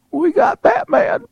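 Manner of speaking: put-on high, loud, slow old man. Older friend presenting Batman to the preacher, high excited announcement. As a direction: announce it proudly in a squeaky shout. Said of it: "Ed's an older gentleman".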